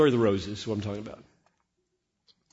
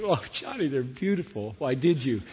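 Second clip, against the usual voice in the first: lightly voiced wife. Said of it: "she says".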